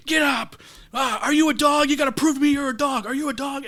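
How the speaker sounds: high, pushy coach voice; imitating the coach egging a player on; mock coach yell. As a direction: bark it like a fired-up football coach. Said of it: "the coach is like".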